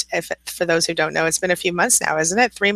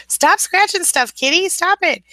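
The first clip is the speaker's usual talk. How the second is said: much higher voice telling the cat off; pet-scold, pitched way up; high-pitched scolding of the kitten; 12 semitones higher than usual. Real, not acted. Host stopping the kitten clawing her painting, high scold.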